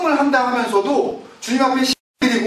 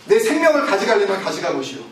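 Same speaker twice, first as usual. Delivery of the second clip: defiant Jonah; 4 semitones lower than usual. Acted. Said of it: "뭐라 그래요, 요나가?".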